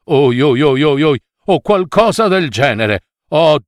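moaning, groaning dog full of self-reproach; greedy dog in pain. Acted. Greedy dog moaning over his aching stomach, pained lament. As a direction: whimper and scold yourself, stomach aching.

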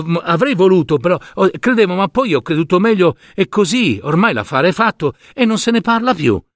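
put-on stammering boy. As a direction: fumble for words like a caught child. Boy fumbling for excuses. (bambino impacciato che balbetta scuse)

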